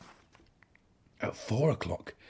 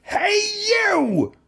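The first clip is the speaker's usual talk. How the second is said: challenging shout; 10 dB louder than usual. A narrator's reading. Ladybird picks a fight.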